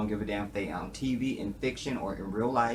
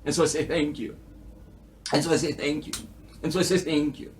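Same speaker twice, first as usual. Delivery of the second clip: mock stage bow; 3 semitones higher than usual. Comic bowing to imagined applause as a performer. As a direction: thank the crowd like a showman. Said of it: "in this soliloquy".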